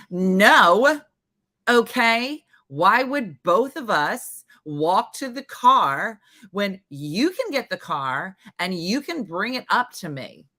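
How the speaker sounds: mock sassy refusal, drawn out; defiant kid. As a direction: imitate a kid refusing, slow and emphatic. Retelling a defiant kid's refusal.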